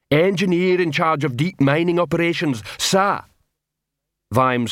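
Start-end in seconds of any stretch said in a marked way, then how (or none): 0.1-3.2 troll voice. Acted. Troll Detritus speaks.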